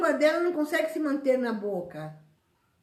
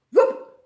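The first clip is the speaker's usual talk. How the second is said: quick, high, loud "vup"; a sudden zip of action, voiced sharply upward; sudden whoosh noise; 11 semitones higher, 9 dB louder than usual. Shown as a demonstration. Imitating sudden burst of tidying. (som de arrancada repentina)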